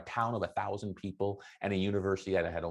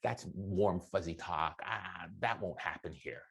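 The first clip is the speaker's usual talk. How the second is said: lower, softer skeptical voice; mock dismissive skeptic; imitating a doubter; 4 semitones lower, 5 dB quieter than usual. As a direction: brush it off like a doubter. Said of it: "And you're like".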